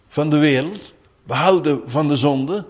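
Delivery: ordinary talk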